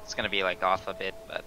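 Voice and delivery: cheap usb mic. Real, not acted. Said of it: "I apologize for the mic quality".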